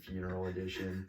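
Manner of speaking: flat, low funeral announcer voice; deadpan monotone, no life in it. Pretend. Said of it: "Like, the most monotone voice".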